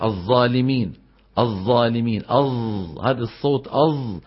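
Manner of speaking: "الظالمين" with ظ turned into emphatic z; zah as heavy z. Shown as a demonstration. Teacher imitating Levant and Egyptian colloquial, "الظالمين" with heavy z. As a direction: buzz a thick z in "الظالمين". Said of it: "إبدال الظاء صادا مشمتا زايا".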